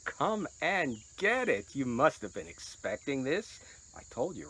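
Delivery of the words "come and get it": slow, higher sing-song call; mock dinner-bell call. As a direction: call them in to eat, drawn out. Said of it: "ring the bell and say".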